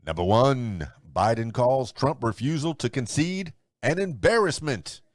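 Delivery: announcer-style headline read with emphatic quote marks; news read. Acted. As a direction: read the day's top stories like a radio newscaster.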